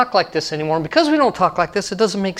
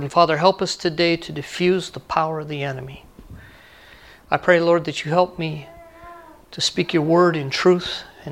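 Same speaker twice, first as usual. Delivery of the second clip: prayer. Real, not acted. Leads congregation in prayer.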